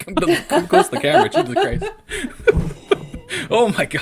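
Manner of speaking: high-pitched laughter through words; cracking up, loud and high; laughing. Real, not acted. Bursting into laughter at friend's face.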